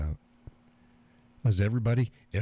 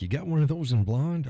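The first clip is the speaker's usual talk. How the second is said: incredulous question, pitched up; mock disbelief; 6 semitones higher than usual. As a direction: repeat it back in disbelief. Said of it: "And it's like".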